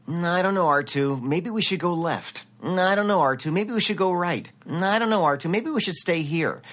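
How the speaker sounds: put-on earnest young hero, repeated dutifully; Luke Skywalker. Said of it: "as Luke Skywalker".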